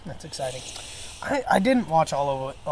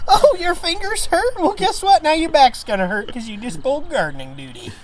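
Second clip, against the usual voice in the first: movie quote; 10 semitones higher, 3 dB louder than usual. Retold or imitated. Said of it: "Oh, I love that movie".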